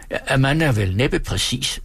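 slow, prim schoolmaster voice; pompous teacher. Acted. Schoolmaster greets the ladies, slow and prim. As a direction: stiffly excuse the lateness.

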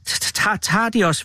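stammered start, whispered first word; a mildly frightened, faltering question; shaky whisper. A narrator's reading. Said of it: "hviskede lillebror rystende". (rystende hvisken)

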